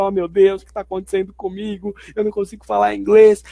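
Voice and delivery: mildly hammed-up worry; a touch of mock panic at not understanding; overemotional dismay. English learner fretting over one unknown word, mild mock dismay. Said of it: "a gente coloca uma carga emocional desnecessária".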